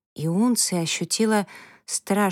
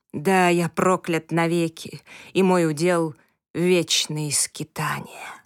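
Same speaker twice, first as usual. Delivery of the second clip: anguished outcry fading to whisper. Acted. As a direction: cry out the curse, then breathe it. Climax of comet's lament.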